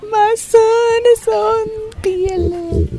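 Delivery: high, slow, beaming proud father; proud dad voice. Retold or imitated. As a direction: play the dad glowing with pride.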